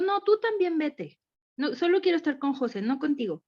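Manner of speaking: mock a toddler pushing his mother away; imitating her son. Mother quotes son rejecting her. (imitando a su hijo terco, lento y más agudo)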